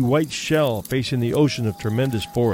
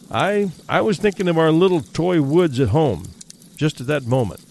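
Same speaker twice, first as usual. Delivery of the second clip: stammering; 3 semitones higher than usual. Acted. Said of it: "stammered Simpson".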